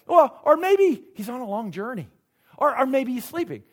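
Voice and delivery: lightly acted taunt, mock-helpful suggestions; Elijah. Elijah mocks the prophets' silent god, mildly hammed-up taunting. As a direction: needle them with pretend excuses, pitched a bit up. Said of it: "This is Elijah taunting them".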